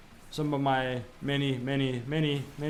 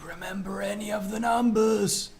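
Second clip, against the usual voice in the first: helpless protest; 6 semitones higher than usual. Real, not acted. Mock protest at the details.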